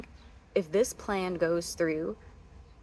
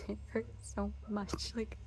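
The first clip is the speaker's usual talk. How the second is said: laughing hurt; 3 semitones higher, 10 dB quieter than usual. Real, not acted. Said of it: "I had to take a second".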